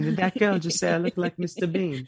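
high-pitched disbelief; incredulous. Real, not acted. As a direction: repeat the name in real disbelief. Incredulous at being likened to Bean.

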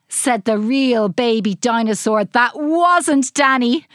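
usual speaking voice

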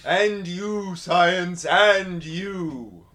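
a Transylvanian count's greeting; light vampire accent, savouring each word. Pretend. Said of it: "I love how much you sound like a vampire".

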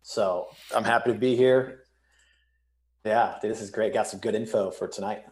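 echoey empty room; big hall echo. Real, not acted. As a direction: sound echoey, like a bare room. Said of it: "If I sound echoey".

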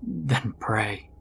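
softly spoken, ominous instruction; eerie calm. A narrator's reading. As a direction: drop it softly, with unnerving calm. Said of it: "with an eerie calm".

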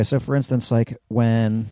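ordinary delivery

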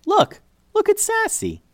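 excited shout. Acted. Girl calling the others to see the dog with the necklace. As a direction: call out in delighted discovery.

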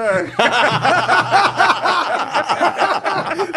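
big high burst of laughter; laughing out loud, high and loud. Real, not acted. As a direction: crack up hard.

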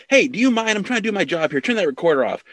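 high, irritated cop barking orders; mock-stern police chief demanding the recorder off; gruff police chief. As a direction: shoo the reporter off like an annoyed chief. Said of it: "he's like".

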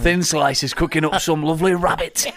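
lightly put-on Jamaican accent; joke Jamaican accent. Joking to a co-host about cooking rabbit, mock Jamaican accent. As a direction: have a go at a comic Jamaican accent. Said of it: "That's a great accent".

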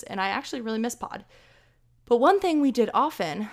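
breathless from talking fast; talking short of breath. Real, not acted. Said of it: "I'm, like, out of breath".

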